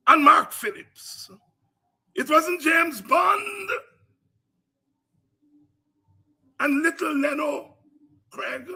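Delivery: orator's full-force rally cry; preaching at full force. Real, not acted. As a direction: preach it to the crowd. Fiery political oration.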